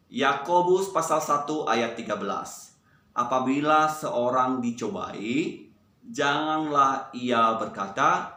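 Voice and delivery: slow, measured verse recitation. Shown as a demonstration. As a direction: recite slowly so a group can follow. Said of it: "Yang pertama ini kita pelan-pelan dulu".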